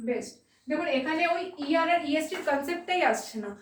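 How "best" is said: one word at a time with long pauses; isolated words at note-taking pace; slow dictation. Real, not acted. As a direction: dictate each word, then wait.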